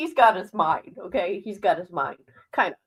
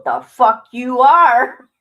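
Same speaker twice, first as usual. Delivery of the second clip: mock outraged retort; 3 semitones higher, 12 dB louder, much slower than usual. Retorting to dad's plan.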